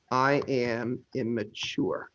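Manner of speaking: deadpan slow dictation of a silly name; slow typing read. Shown as a demonstration. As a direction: spell out the new name slowly. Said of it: "I'm gonna rename you here".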